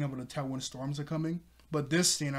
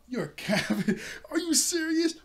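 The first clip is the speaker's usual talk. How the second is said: laughing disbelief; 12 semitones higher, 4 dB louder than usual. Retold or imitated. Laughing at Usopp's claim.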